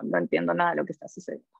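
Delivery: mock confused learner.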